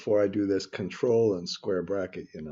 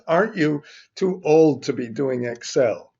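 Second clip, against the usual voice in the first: quoted student; 6 semitones higher, 8 dB louder than usual. Retold or imitated. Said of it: "somebody told me in the last class".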